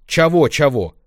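high loud teasing echo; mocking mimicry. Grandma mocks Lenka's words, teasing imitation. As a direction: mimic the girl's whine. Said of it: "передразнила меня бабка".

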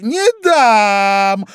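high, loud, curt refusal; cutting her off. A narrator's reading. Mouse cuts Alice off, sharply and loudly. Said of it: "оборвала её мышь".

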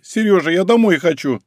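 high, whiny plea to go home; whining. A narrator's reading. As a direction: whimper it like a tired child. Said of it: "захныкала с заднего сиденья Тася".

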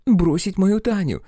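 scandalised on a friend's behalf; indignant. Acted. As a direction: stretch it out in offended disbelief. Friend indignant, eyes bulging.

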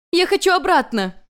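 high, loud tearful demand; a goddess beating her head, crying out; demanding scream. Acted. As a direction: scream it like a child wanting back. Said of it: "потребовала Юнь-Юнь".

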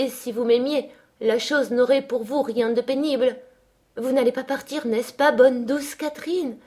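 high, distraught pleading; sobbing plea. A narrator's reading. Linton begs Catherine not to abandon him, sobbing. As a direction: beg desperately, on the edge of sobs. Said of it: "sanglotait-il".

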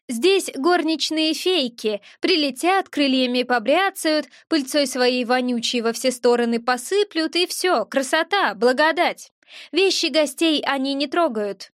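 lightly voiced gremlin mocking the fairies; disdainful gremlin. Gremlin mocks the hotel fairy maids, disdainful.

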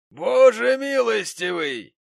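high, loud, slow pompous outcry; dignified exclamation. Acted. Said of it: "воскликнул джентльмен с достоинством".

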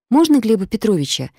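high small timid squeak. Acted. Katya squeaks into the phone to a stranger, timid. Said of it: "пропищала Катя".

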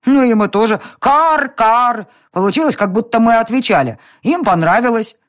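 put-on high, loud kid voice with crow caws; a little girl proudly cawing back; child cawing. A narrator's reading. Irma imitates cawing crows.

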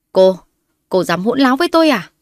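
how dare you; outraged. A narrator's reading. Outraged mother-in-law.

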